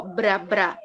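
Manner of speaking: bra, bra, each a separate unbroken syllable; isolated syllable. Shown as a demonstration. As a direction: show b and r joined in a single bra. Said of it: "Eu não posso separar o B e o R".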